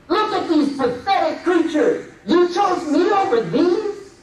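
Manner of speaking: lightly voiced devil sneering at fools; gloating Shaitan. A hint of the devil mocking the people who chose him. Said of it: "he's just laughing at the".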